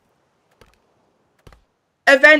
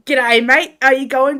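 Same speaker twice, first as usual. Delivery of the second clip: hammed-up broad Australian greeting, louder; put-on Aussie accent; 2 semitones higher, 5 dB louder than usual. Shown as a demonstration. Streamer showing chat she can put it on, mock Aussie accent. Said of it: "I could put it on".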